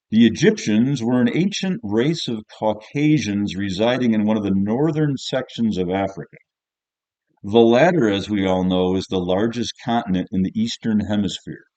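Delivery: teacher reading essay aloud. Acted. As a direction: read the pupil's essay out with heavy emphasis. Teacher reads pupil's essay aloud.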